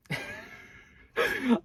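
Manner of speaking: high-pitched burst of laughter; sudden high giggling fit; real laugh. Real, not acted. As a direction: break into a high laugh at yourself. Laughs at herself.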